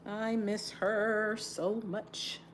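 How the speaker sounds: slow, aching admission of loss; grieving. Real, not acted. Grieving friend, close to crying.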